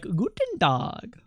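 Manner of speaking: German greeting. Retold or imitated. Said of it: "speak German as well".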